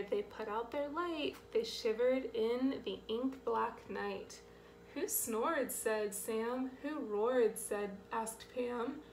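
measured, rhythmic picture-book voice; reading to children. A narrator's reading. Reader telling children of the camp night, lilting story read. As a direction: pop the short quotes up, bring the tags back down.

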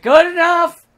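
loud, high, hammed-up careless crew guy; lazy crew member wrapping the take; impatient director. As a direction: shout it off to rush out the door. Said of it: "there's just a guy who's just like".

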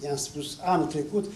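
usual speaking voice

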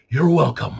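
loud sarcastic courtesy; sarcastic George Carlin. Retold or imitated. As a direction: punch it out with mock politeness. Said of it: "push my sarcasm even further".

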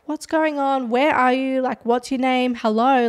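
mildly impatient, quizzing retold voice; annoyed dispatcher. Dispatcher questioning screaming Bree, imitated mild annoyance. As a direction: fire off questions like an annoyed operator. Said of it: "she seems annoyed at Bree".

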